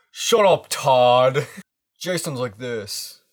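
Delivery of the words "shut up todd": put-on higher, louder annoyed teen; teen shout. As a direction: snap at him like a teen. Voicing Jason.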